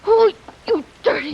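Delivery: loud, high, spitting it out; furious outburst. Acted. Maxine caught by Sam, bursting out in fury. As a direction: lash out at him in outrage.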